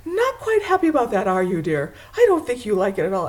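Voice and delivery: lightly imitating a husband; husband's teasing remark. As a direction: mildly act out a husband's dry question. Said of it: "and John goes".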